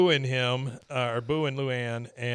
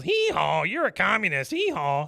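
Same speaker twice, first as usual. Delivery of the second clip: donkey bray; 5 semitones higher, 5 dB louder than usual. Retold or imitated. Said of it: "the donkey puppet comes up".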